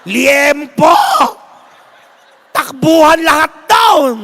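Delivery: loud, high shout of alarm; a hammed-up panicked yell, pitched high; mock shout. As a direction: yell like everyone's stampeding. Crowd scrambling for pork.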